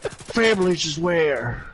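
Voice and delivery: slow, drawn-out dopey Bush voice; George Bush impression. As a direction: drawl it out, proud of a dumb line. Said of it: "Frank Caliendo had a bit".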